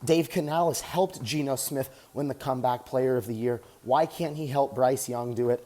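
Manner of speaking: talking while jogging on a treadmill; a little winded mid-run; while running. Real, not acted. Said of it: "Just getting some cardio in right now".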